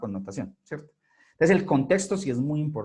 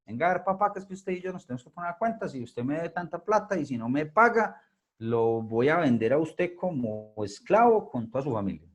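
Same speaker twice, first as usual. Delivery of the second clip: stern king; 2 semitones higher than usual. Acted. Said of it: "y le dice".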